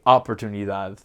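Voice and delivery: "oportunidad" said like English "opportunity"; American mispronunciation demo; anglicized Spanish. Shown as a demonstration. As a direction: slide "oportunidad" toward the English word. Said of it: "create a diphthong there".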